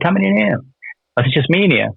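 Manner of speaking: high, defiant call; retold shouted challenge. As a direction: dare him to come in, up high. Challenging officer through cell door.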